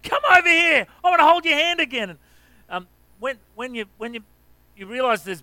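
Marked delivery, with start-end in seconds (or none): 0.0-2.1 much higher and louder imitated yell; hammed-up cry for her husband; mock labour scream. Husband retelling his wife in labour calling him, hammed-up high yell. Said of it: "she's screaming and saying".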